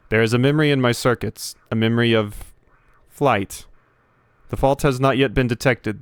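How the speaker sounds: lightly voiced defective robot, steady and measured; a hint of a mournful machine confessing. Gamer voicing the broken robot to Primus, lightly robotic.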